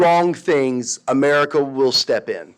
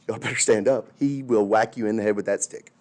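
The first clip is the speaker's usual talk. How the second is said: hushed warning; 7 semitones lower, 6 dB quieter than usual. Retold or imitated. Scared classmates whispering warning.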